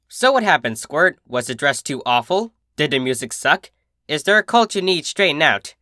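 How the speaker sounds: a hint of brash big sister, friendly; cheerful, teasing sporty pony; lightly voiced tomboy. Narrator voices Rainbow Dash.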